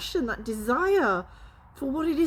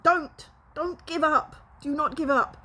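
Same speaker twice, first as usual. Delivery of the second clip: repeated emphatic "Do not give up" with "not" stressed; pep talk to viewers, insistent; insistent don't; 3 semitones higher than usual. Real, not acted. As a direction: urge them, hammering the "don't". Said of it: "If you are ever wondering".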